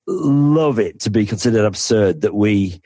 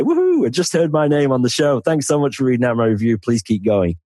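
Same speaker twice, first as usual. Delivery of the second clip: mildly excited, higher-pitched cheer; thrilled listener; 4 semitones higher than usual. Retold or imitated. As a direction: act out a delighted fan's thank-you, lightly hammed-up. Acting out a thrilled listener's email.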